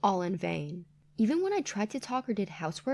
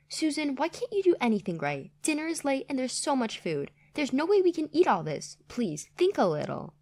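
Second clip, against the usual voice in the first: scolding mother-in-law; 4 semitones higher than usual. Acted.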